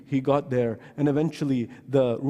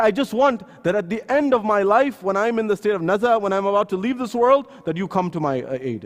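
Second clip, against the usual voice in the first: higher, louder heartfelt plea; earnest plea; 5 semitones higher, 4 dB louder than usual. Retold or imitated. Barber to the imam, a loud fervent plea. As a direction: beg it with rising fervour.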